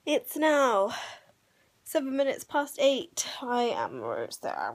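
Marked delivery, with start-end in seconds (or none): 3.4-4.7 deep silly voice. Pretend.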